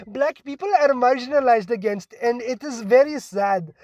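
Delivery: put-on high, perky accented classmate; happy perky voice. Imitating a classmate answering in class, happy and perky. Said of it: "such a happy, perky voice".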